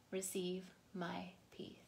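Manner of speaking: breathy whispered close. Acted. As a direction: let the phrase fade into a whisper. Soft close of devotional line.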